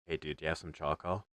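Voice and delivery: low, fast, hushed creepy whisper. Retold or imitated. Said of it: "he just whispers that".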